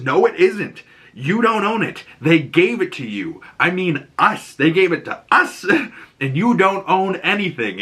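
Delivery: high mock teen retort; defiant comeback. Ellie answering Joel, high defiant retort. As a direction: snap back, up high. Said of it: "And she says".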